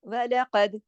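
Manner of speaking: वलक़द with heavy क़ and bounced द; qalqala. Shown as a demonstration. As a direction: end वलक़द with an echoing द. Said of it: "दाल पे कलकला हो रहा है".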